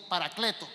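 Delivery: "Paracleto" with an e in the stressed syllable; E pronunciation. Shown as a demonstration. Preacher gives his own reading of the title, "Paracleto" with E. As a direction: say "Paracleto" with eh, not ee. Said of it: "yo la pronuncio como E".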